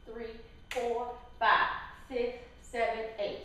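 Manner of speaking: counting out the beats. Shown as a demonstration. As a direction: count the dance like an instructor. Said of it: "I'll count it out for you".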